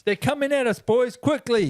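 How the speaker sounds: put-on high-pitched alarm to the boys; rally the crew in a put-on high voice; mock panicked rallying. Acting out the panicked haka crew.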